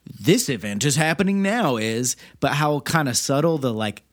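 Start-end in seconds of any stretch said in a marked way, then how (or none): 0.1-1.8 mock-obvious, pitched up a notch; ham-handed announcement. Mocking the movie's clumsy signposting of the present, ham-handed. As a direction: hammer the point home, hammed-up. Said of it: "how ham-handed the, like".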